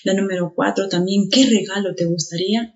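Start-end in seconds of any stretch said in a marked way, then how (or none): 1.3-2.7 "qué" given the main stress; teacher's demonstration of a stressed "qué"; emphatic QUÉ. Shown as a demonstration. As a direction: lean on the question word "qué". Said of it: "Es enfático, es tónico".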